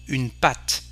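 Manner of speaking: "patte" ending on a crisp T; silent final E. Shown as a demonstration. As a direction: say "patte" as one syllable, "pat". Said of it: "we don't pronounce the E".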